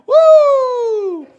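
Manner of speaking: very high, loud whoop; a celebratory high yell; woo shout. Real, not acted. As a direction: whoop at full power. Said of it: "crowd hype".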